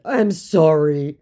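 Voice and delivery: slow, drawn-out fake sorry; imitating a pleading scammer; mock apology. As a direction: ham up the sorry.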